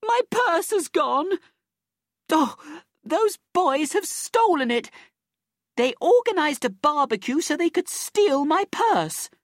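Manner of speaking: high, outraged wail; screaming accusation. A narrator's reading. Robbed woman accusing the boys before everyone, screaming high in outrage. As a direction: cry thief at the top of your range. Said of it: "She started screaming again".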